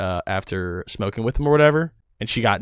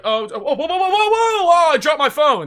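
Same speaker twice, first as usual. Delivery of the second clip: high, rising whoa-whoa while laughing; mock panic; 4 dB louder than usual. Shown as a demonstration. Speaker demonstrating panic over a dropped phone, high and laughing. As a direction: fumble the words in mock alarm. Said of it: "panic is like".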